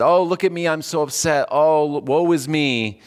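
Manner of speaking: a hint of theatrical self-pity; mock showy grief. A hint of mock woe for onlookers, showing off grief. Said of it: "to show people you're upset".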